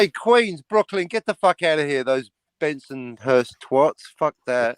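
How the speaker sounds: mock New York tough-guy accent; Queens accent. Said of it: "That's his Brooklyn accent".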